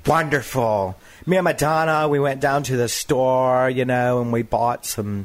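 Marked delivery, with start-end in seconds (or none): 1.3-5.3 Sandra Bernhard impression. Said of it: "I could do Sandra Bernhard".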